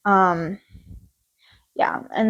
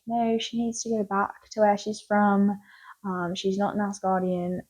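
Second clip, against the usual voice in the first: lightly attempted British accent; a badly faked British accent; terrible British accent; 3 dB quieter than usual. Odin dismissing Jane as not Asgardian, in a terrible British accent. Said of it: "That was a terrible British accent".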